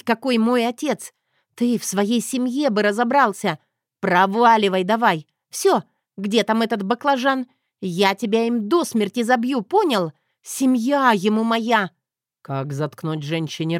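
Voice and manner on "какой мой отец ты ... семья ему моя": raised, higher angry woman's voice; feisty heroine snapping at a man. Acted. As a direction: rant at him, fed up and feisty. Zoya's voice, angry rant.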